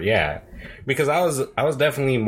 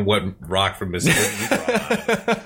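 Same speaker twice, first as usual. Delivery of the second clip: mock southern cousin, through laughter; laughing impression of a Mississippi relative; imitated Mississippi accent; 3 semitones higher than usual. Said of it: "her cousins, on the other hand".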